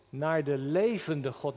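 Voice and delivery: "levende" drawn out slowly, pitch low; emphasis on levende. Shown as a demonstration. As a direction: dwell on the word "levende", slowly. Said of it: "Let even op dat woordje levende".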